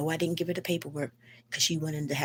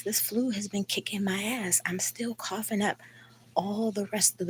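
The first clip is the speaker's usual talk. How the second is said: higher pitched, fed-up venting at the landlady; exasperated rant; 7 semitones higher than usual. Real, not acted. Venting to viewers about the landlady, fed-up and high. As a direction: let the frustration pitch up as you complain.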